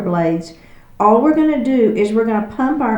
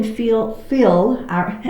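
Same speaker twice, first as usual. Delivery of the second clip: Texas accent; much slower than usual. Real, not acted. Teacher cueing the class slips into a Texas accent on FEEL. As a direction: FEEL slipping out with a Texas twang. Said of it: "that's my Texas accent coming out".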